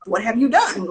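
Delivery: slow, doubtful investor question; a touch of sceptical investor; skeptical reply. Retold or imitated. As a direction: drag it out, unimpressed. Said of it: "And I'm like".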